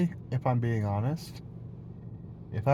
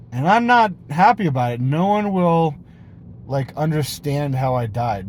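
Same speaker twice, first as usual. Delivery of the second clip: mock distress; 3 semitones higher, 7 dB louder than usual. Mock terror at Sasquatch death.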